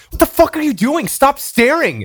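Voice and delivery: high mock girlfriend scolding; imitating angry girlfriend. Girlfriend catching him staring, high mock scolding. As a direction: squeak it like an annoyed girlfriend. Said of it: "my girlfriend grabs my hand and she goes".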